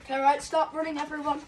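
calling out. Real, not acted. Calling to everyone.

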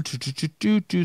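stuffy nasal voice; blocked nose from allergies. Real, not acted. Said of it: "can you hear my nasally voice?".

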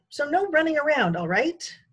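high, loud scolding. A narrator's reading. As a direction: wag a finger, scolding. Scolding finger.

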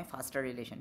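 'foster' said as faaster; ah vowel in 'foster relation'. Shown as a demonstration. Teacher lists three versions, 'foster relation' as faaster relation. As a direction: turn foster's O into ah. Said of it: "तीन तलफ़ुज़ होगा इस word के".

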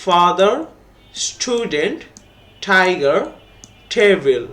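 one word at a time, with pauses; listen-and-repeat model. Shown as a demonstration. Teacher modelling words for pupils to repeat, listen-and-repeat delivery. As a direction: model each word firmly for repetition. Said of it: "now listen and repeat".

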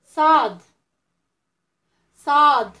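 صاد called out loudly; loud model letter. Shown as a demonstration. Teacher drilling children on the letter. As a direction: belt out صاد for the class to repeat. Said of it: "نعاودوا مع بعضياتنا".

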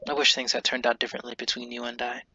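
stuffy nose while reading; runny nose. Real, not acted. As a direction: talk through a runny nose. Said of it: "I apologize for my runny nose".

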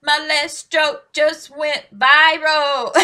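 misquoting the lyric through laughter; a loud, laughing misquote of a song lyric. Retold or imitated. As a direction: laugh while garbling the line. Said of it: "He said".

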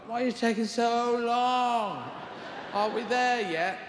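put-on high, slow whining child-like voice; impatient animals nagging God, high and slow; whiny animals. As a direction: drag it out like a bored kid in the car.

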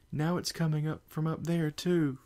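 high, loud alarmed cry. Acted. Fluttershy alarmed.

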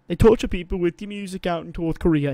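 light put-on British accent; mock British accent. Co-host joking about North Korea, accidental British accent. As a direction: slip into a hint of British accent. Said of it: "I don't know why I did an accent".

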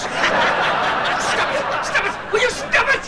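high, desperate pleading yell; frantic yelling. Acted. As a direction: beg them to stop, pitch climbing high. Yelling at Hugh and Doris.

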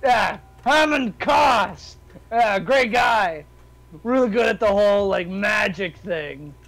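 lightly voiced gloating hero; cocky fighter in character. Fighter taunting little enemy about frozen friend, lightly cocky. Plays fighter praising his pal.

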